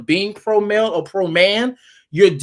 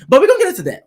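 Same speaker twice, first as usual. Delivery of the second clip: louder teaser; 10 semitones higher, 5 dB louder, much faster than usual. Acted. Teasing the topic for later.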